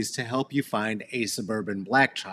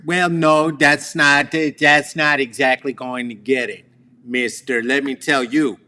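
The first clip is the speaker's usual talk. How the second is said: louder, scolding mom voice; mock stern mother; 6 dB louder than usual. Mother scolding her son, in a louder stern voice. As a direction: lay down the law as mom.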